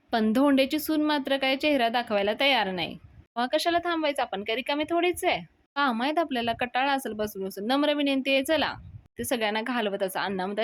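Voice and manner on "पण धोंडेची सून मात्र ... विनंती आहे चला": higher, louder indignant dismissal; indignant outburst. Retold or imitated. Datta telling the guests to leave, indignant and loud. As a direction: send the guests packing in mock anger.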